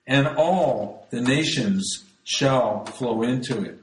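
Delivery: measured, solemn reading of Isaiah; scripture reading. Acted. Preacher reading scripture to the congregation, solemn. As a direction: read the prophecy out like from the pulpit.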